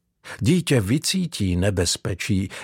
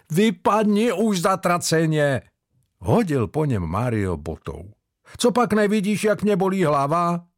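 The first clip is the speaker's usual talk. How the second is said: raised, higher, annoyed; Mario throws his boot and tells Jordan to get out, raised voice; mild mock yell; 8 semitones higher than usual. A narrator's reading.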